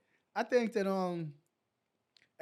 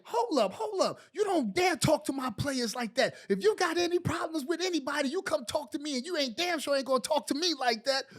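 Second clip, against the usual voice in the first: coach yelling at ref; 5 semitones higher than usual. Retold or imitated. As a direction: defend your player, mock yelling. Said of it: "So Pat was like".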